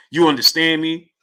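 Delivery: lightly imitated catchphrase; mock dropped voice. Host repeating the boxer's phrase, lightly mocking voice. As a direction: echo his affected delivery with a touch of mockery. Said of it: "Why did he drop his voice like that?".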